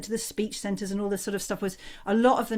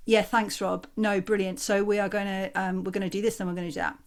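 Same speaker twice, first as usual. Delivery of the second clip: unanimated. Shown as a demonstration. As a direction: come off mute without any brightening. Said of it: "I'm like this and I say".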